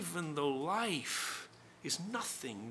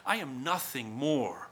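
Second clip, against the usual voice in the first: defiant retort; 4 dB louder than usual. Acted. Defiant reply, loud then whispered.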